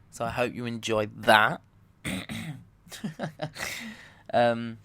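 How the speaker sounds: ordinary talk, nothing marked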